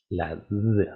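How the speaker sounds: D drawn out with a voiced buzz; D con vibración. Shown as a demonstration. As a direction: make the D vibrate before releasing it. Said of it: "la terminación que tiene vibración". (D sonora, con zumbido)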